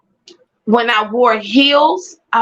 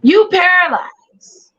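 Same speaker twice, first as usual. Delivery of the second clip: disbelieving doctor; 8 semitones higher, slower than usual. Retold or imitated. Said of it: "And they said".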